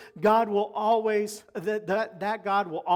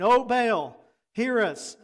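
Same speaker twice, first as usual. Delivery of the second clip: imitated plea to Baal, a bit raised; calling out; 3 semitones higher, 4 dB louder, slower than usual. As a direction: call out to a god, mildly. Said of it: "they called on the name of Baal".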